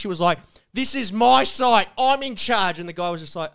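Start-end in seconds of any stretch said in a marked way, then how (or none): 0.7-2.8 raised, drawn-out mock boast; boastful retold declaration, pitched up; loud boast. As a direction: imitate a guard loudly asserting control. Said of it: "she was boasting to him loudly".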